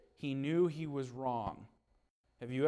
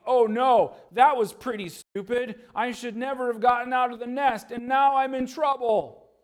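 higher and louder panic; panicked eaglet; 7 semitones higher, 8 dB louder than usual. Acted. Falling eaglet regretting leaving the nest, panicked and loud. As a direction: realize the mistake in alarm. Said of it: "he probably would think".

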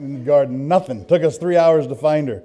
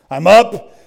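shouted, louder burst of alarm; 5 semitones higher, 11 dB louder than usual. Retold or imitated. Preacher bolting out of bed, loud shout.

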